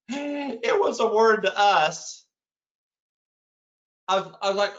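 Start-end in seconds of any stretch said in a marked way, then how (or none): 0.1-2.2 gentle amused mother. Retold or imitated.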